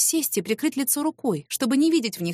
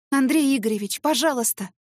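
urgent begging, higher; pleading; 5 semitones higher than usual. Acted. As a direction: plead to bring him back to his senses. Pleading with the raging boss. (умоляюще)

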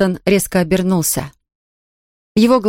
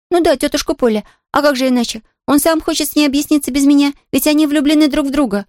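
put-on higher, quick girl's voice bursting to tell; excited little girl; 8 semitones higher than usual. A narrator's reading. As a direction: gush like a thrilled child. Pollyanna explains eagerly.

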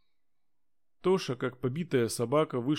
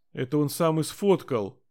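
shrieking; 4 semitones higher, 4 dB louder than usual. Acted. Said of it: "завизжала девчонка".

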